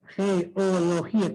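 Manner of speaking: geología slowly, GE-O-LO-GÍ-A; split into syllables. Shown as a demonstration. Teacher asks what vowels meet, slow separated geología. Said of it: "Cómo sería en el caso de la palabra geología".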